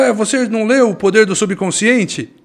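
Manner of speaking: put-on high, loud Italian-accented Portuguese. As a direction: keep his Italian accent. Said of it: "Um sotaque italiano que ele tinha".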